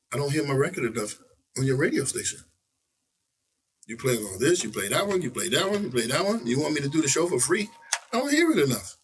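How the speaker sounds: insistent list, each item rising; reenacted complaint. Rapper confronting the station boss about airplay, insistent complaint. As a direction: build to a high-pitched protest.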